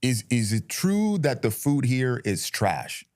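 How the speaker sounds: slow, imitated heavy Russian accent. Imitating a coworker asking about US food, heavy Russian accent. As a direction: put on a thick Russian accent, taking it slowly. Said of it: "heavy Russian accent".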